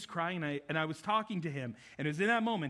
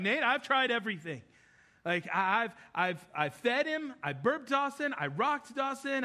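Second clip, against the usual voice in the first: imitating his wife, pitched higher and pleading; a frazzled mom who has tried everything, higher; desperate wife; 5 semitones higher than usual. Wife tells husband nothing calms the baby, higher desperate voice. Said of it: "she looks desperate".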